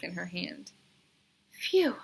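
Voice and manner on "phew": relieved phew. A narrator's reading. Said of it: "Bebe sighed with relief".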